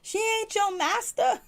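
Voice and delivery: very high, drawn-out incredulous squeal; mock disbelief. Repeating Miss V's rebuke of Shelby, mock disbelief. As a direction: squeak it in exaggerated shock, about to laugh. Mocking disbelief, breaking into laughter.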